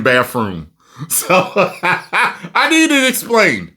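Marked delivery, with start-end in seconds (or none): 0.0-0.7 "bathroom" said as "baf-room"; wrong pronunciation. Shown as a demonstration. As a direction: put an f in the middle of "bathroom". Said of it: "You shouldn't be saying bathroom".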